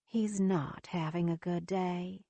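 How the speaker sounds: gentle and a little slow, lightly voiced; kind voice. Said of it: "Alice tells me in a kind voice".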